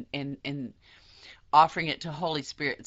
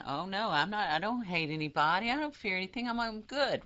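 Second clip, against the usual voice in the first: high, sing-song denial; mock denial; 4 semitones higher than usual. Teacher mocking people who deny their fear, high and prissy. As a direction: play the one pretending all is fine, higher. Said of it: "pretend that they're not there".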